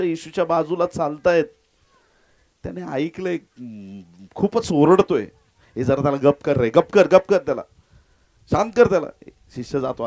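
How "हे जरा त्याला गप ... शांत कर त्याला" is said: irritated hushing. Acted. Disciples hushing a shouting beggar.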